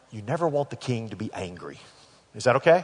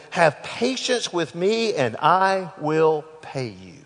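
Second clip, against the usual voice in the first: pleading; 5 semitones higher, much slower than usual. Acted. Servant pleading for more time.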